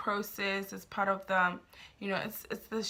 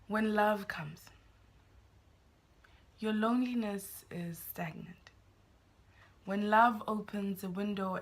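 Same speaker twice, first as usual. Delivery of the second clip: measured poetry reading with pauses between lines; poem recitation. Real, not acted. Poet reading a new love poem to viewers, measured recitation.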